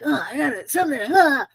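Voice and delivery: high, flustered gasping panic; mock panic. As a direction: act out a frantic flap. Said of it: "You just panicking and like".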